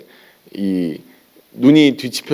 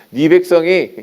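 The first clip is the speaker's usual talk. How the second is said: mock-disgusted, raised "네 백성이"; disowning in disgust; 4 semitones higher than usual. God disowning Israel to Moses, mock disgust. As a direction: push "네 백성이" away, a little higher. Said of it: "얼마나 꼴보기 싫으면 뭐라고 해요".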